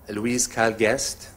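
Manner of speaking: ordinary delivery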